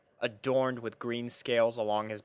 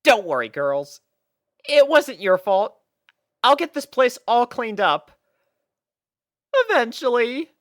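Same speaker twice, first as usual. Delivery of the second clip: high, louder kind voice; reassuring Twilight; 11 semitones higher, 7 dB louder than usual. Acted. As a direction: comfort them gently. Twilight reassuring the guilty fillies.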